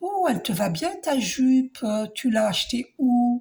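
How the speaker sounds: syrupy, honeyed, falsely sweet put-on voice. Retelling what a jealous woman once said to her, imitating a honeyed voice. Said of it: "une voix très très mielleuse".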